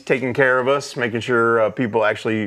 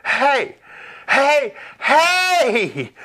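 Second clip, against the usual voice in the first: wife calling out; 12 semitones higher, much slower than usual. Retold or imitated. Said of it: "And then I'll hear".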